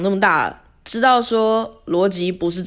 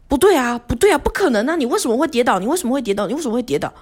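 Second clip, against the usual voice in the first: insistent boss; 6 semitones higher, faster than usual. Retold or imitated. Imitating a boss's insistent questioning.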